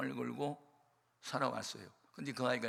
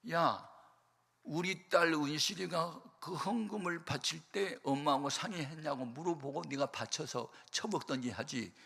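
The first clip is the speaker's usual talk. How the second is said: imitating a drunk mother cursing on the phone; drunk angry mother; 3 semitones higher than usual. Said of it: "대낮에 술이 취해가지고 나한테 전화가 왔어요".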